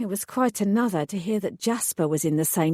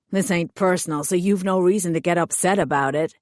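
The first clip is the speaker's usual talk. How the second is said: hired thug voice. Acted. Thug explains his orders to the heroine, sullen lowered voice. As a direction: play the sulky hired heavy explaining himself.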